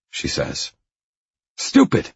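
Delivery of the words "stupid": high, loud burst of outrage; enraged. A narrator's reading. Man seeing red at her remark, outraged yell. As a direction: explode on the word, pitch leaping. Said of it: "I see red".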